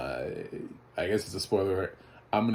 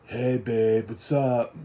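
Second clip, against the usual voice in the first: louder mock model-boyfriend voice; doofus male model; 3 semitones higher, 5 dB louder, much slower than usual. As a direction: parody a toolish boyfriend on the phone. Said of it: "male model-y types that's like".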